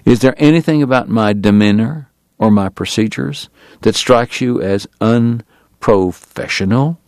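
understated cold challenge; sudden hostility. Acted. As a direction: let a touch of menace creep in, slowing down. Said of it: "startled by the sudden hostility".

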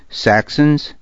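a rising, put-on startled Saxons?; feigned surprise. A narrator's reading. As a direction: act caught off guard, but just a bit. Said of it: "I pretended surprise".

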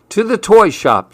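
high eager call to action; eager exclamation. Acted. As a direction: sing it out like a fresh plan. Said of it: "said Billy".

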